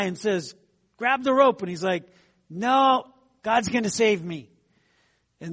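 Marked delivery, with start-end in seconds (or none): 1.0-1.6 raised, louder rescuer's call; called-out order. Acted. Helicopter rescuer to man on the roof, calling out. 2.5-4.5 louder, raised acted refusal; emphatic refusal. Stranded man turning down the helicopter, emphatic refusal.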